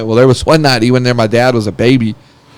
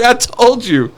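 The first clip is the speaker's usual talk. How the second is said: exasperated scolding; 10 semitones higher, slower than usual. Retold or imitated. Brother scolds friend afterwards.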